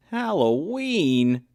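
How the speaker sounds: high, slow, loud call of the word; a bear cub shouting Halloween; shouted. A narrator's reading. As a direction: shout it out in surprise. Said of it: "shouted Buddy".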